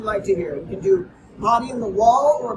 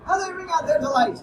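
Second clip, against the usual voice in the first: sweeping, ringing poetry reading; rolling theatrical verse reading; dramatic poem recital. Acted.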